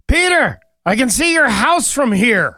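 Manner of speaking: comic Jesus voice with the joke's final line; Jesus delivering the punchline. Acted. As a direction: land the last line big and drawn out. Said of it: "he goes".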